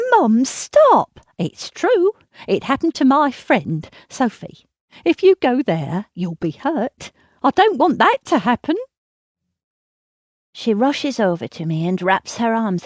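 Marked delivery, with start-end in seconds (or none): 0.1-1.2 loud, sharp plea to stop; cry out. Acted. Daughter cries out to stop mother. 1.4-8.8 high, louder, anxious pleading; frantic insistence. Acted. Mother insists, frightened.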